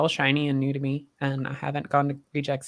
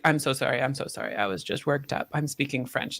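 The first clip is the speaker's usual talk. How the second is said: quieter, softer apologetic mumble; sheepish apology; 6 dB quieter than usual. Retold or imitated. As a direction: retell a coworker sheepishly apologizing after losing his temper. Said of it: "And he'd be like".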